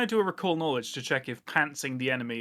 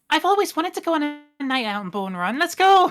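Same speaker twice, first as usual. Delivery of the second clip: excited; 12 semitones higher, 7 dB louder than usual. Retold or imitated. Sigrun's excited quote, player retelling.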